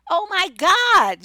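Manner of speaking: long, drawn-out and loud "Oh my God" in disbelief; exasperated oh my God. Real, not acted. Fed up with friends gushing about men, loud and drawn out.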